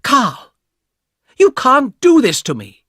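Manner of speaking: high, loud furious shout at Carl; angry shout. Acted. Angry young woman shouting at her brother, loud and high. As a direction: yell it at him, shrill with anger. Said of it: "shouted at the man".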